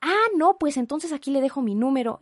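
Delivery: high, loud sudden change of tune; mock sudden operator. Imitating the operator suddenly hearing her, high and loud. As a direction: snap back all helpful at once.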